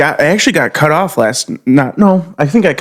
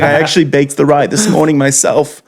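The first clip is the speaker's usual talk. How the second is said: light impression of a Jewish deli accent; Jewish deli guy. Jewish deli guy boasts to a customer, put-on accent. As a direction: play the counterman with a Jewish accent. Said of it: "see some guy like".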